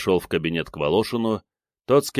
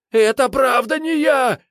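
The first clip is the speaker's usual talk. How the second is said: high, loud, desperate cry; desperate scream; 6 dB louder than usual. A narrator's reading. Suspect screams his innocence at the captain. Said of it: "закричал Прыня".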